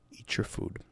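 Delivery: dad's barely voiced, restrained order; near whisper. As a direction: imitate a father whispering to avoid a scene. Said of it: "he almost whispered it".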